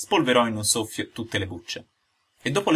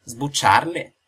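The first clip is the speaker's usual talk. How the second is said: incredulous rising question; can't believe his ears; amazed old father, rising; astonished; 3 semitones higher, 3 dB louder, much slower than usual. A narrator's reading. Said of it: "replicò Geppetto meravigliato".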